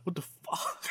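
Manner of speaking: an unvoiced, shocked whisper; whispered what the fuck. Pianist whispering in panic to the conductor, whispered. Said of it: "And she's like".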